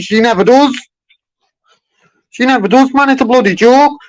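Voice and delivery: real anger at broken promises; exasperated. Real, not acted. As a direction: voice jumps high in disgust. Customer venting about unreturned calls.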